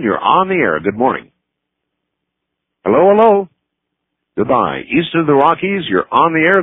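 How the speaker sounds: ordinary delivery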